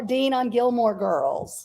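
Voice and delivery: slow, near-shouted fangirl squeal; breaking into a half-cry of pure excitement; excited gush. Real, not acted. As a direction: blurt the name out like a thrilled fan. Gushing about her favourite guest.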